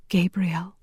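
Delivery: awed, hushed whisper. A narrator's reading. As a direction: breathe the name in a whisper. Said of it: "she whispered".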